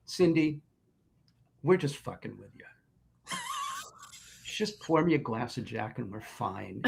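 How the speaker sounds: calm her down gently; reassuring Morrison. Retold or imitated. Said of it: "And he's like".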